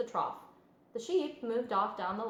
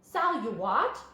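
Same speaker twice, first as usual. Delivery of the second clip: louder startled question; cry out; 6 dB louder, slower than usual. Acted. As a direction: blurt it out in surprise. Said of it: "he cried".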